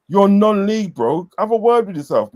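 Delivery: high-pitched, incredulous dismissal; indignant put-down. Retold or imitated. Fan retelling his put-down of a non-league supporter, indignant. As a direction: dismiss the rival as beneath you.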